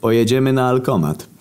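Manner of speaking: high, hammed-up indignant officer; pissed-off cop. Annoyed policeman accusing the drinking buddy, high mock indignation. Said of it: "byli niesamowicie wkurwieni sytuacją".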